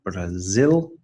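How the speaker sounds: Brazil with ZIL stretched and rising; stress on second syllable. Shown as a demonstration. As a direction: model bra-ZIL, lifting the ending. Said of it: "the stress is on the second syllable".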